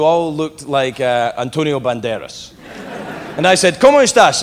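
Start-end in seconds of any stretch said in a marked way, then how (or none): 3.8-4.4 put-on higher, louder try at a Latino accent; attempted Latino accent. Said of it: "I tried to do a Latino accent".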